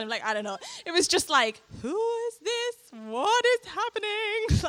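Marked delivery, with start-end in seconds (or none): 1.8-4.6 high, slow, amazed questions; mock-baffled, much higher; bewildered. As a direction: ask it in total disbelief. Baffled retold thought.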